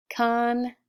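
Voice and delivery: "Conceited" slowly split as con... ceet... ed; "Conceited" with gaps between syllables; sounded out. Shown as a demonstration. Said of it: "let's practice saying it first".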